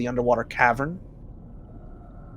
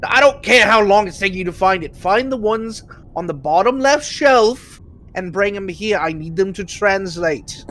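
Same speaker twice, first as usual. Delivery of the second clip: impatient boss yelling, pitched up; booming voice; 5 semitones higher, 4 dB louder than usual. Acted. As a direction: bark orders at the scribe, louder. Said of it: "you hear a booming voice go".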